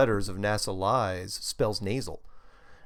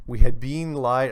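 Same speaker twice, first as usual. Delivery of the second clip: slipping into a Soviet accent; 3 semitones higher, 10 dB louder than usual. Shown as a demonstration. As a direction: read it with a Russian accent. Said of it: "I am not gonna do the Soviet accent".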